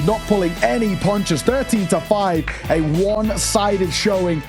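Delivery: rising hype play-by-play; esports caster. Real, not acted. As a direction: call the round closing out. Live play-by-play casting.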